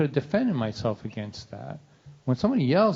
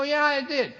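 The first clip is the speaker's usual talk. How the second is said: put-on meek kid; 13 semitones higher than usual. Son's meek reply.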